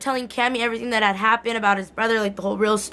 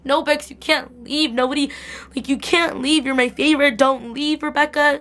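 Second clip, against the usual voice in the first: higher-pitched mock pleading; 4 semitones higher than usual. Fan begging Rebecca not to leave, pleading.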